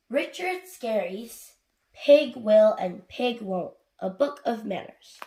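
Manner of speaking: slow, measured title reading; book title announcement. A narrator's reading. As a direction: introduce the book to young listeners.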